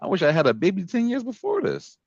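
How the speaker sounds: mock jealous husband.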